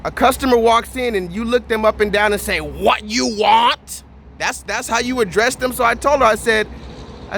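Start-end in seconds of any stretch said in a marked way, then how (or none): 2.6-4.0 put-on very slow blunt accented what you want; drawn-out mock accent; imitating how she greets customers; mock Asian accent. Mimicking the lady again.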